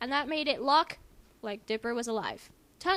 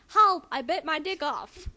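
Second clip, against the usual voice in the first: loud, panicked yell, then slower; acted scream for help; 3 semitones higher, 9 dB louder, slower than usual. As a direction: shout for help like the character. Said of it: "He was screaming louder and louder".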